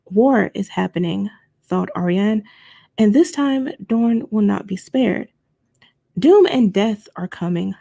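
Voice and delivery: steady read-aloud narrator voice; story narration. Acted. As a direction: read it like an audiobook. Reads novel chapter aloud.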